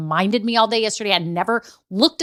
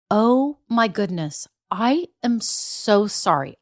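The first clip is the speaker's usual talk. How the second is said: slow, earnest apology; mildly hammed-up sorry; profusely apologetic; slower than usual. Late client apologizing to the receptionist, slow and sorry. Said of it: "I profusely apologized".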